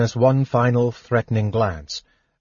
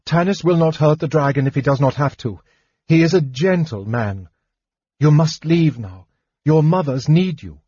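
mildly urgent commanding woman; stern, slightly raised plea; 5 semitones higher than usual. Acted. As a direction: firmly order the children out, edge of fear. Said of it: "her voice stern and commanding".

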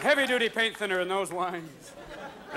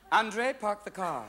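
snooty rich lady; slower than usual. Acted. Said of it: "the type of coat you can go".

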